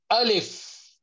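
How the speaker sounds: Alif with the vowel lengthened, falling; long alif. Shown as a demonstration. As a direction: stretch Alif out.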